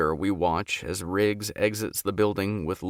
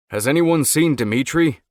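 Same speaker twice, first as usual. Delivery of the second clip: cutting in; 7 semitones higher, 8 dB louder than usual. A narrator's reading. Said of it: "Quinn cuts in".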